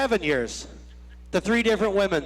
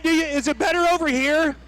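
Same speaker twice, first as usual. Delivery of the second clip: crowd call; 5 semitones higher than usual. Real, not acted. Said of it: "Try, try the other side again".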